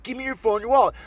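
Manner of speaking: high, insistent mock mugger; acted robber's demand. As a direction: repeat the order urgently.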